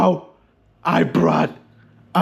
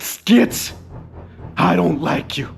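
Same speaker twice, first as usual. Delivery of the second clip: lightly voiced frightened girl, lower and softer; a mild, understated plea not to get hurt; scared girl; 4 semitones lower, 3 dB quieter than usual. Rebecca begging Skits to spare her, mildly frightened.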